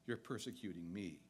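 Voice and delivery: gentle correction. Retold or imitated. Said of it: "And yet Jesus says".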